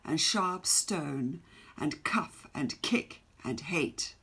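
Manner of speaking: measured, rhythmic poem reading; stately poem reading with long pauses; poem recital. Acted. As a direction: read it like a proud ballad. Teacher reads poem aloud.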